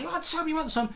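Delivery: high, taunting schoolboy voice; hammed-up teen squaring up to a teacher; mock challenge. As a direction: pitch way up and goad like a cornered lad. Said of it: "he's like".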